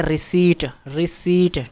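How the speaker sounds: रिसीट said as "ri-SEET", no P sound; silent P in रिसीट. Shown as a demonstration. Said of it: "इसको पढ़ते हैं".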